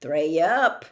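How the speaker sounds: slowing on the count; Hagrid muttering. Acted. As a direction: giant counting bricks to himself. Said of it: "he muttered".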